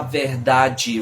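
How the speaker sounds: verdade with its ending pronounced distinctly; regional pronunciation. Shown as a demonstration. Teacher comparing regional accents, verdade shown slowly. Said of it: "Nem em Portugal se fala assim".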